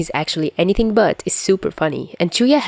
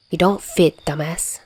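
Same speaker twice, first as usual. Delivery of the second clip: raspy soft Chuya voice. Acted. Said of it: "his raspy voice is a bit harder to do".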